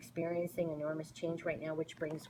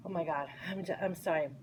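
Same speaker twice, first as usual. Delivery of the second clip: choked up; faster than usual. Real, not acted. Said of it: "moved to tears with this".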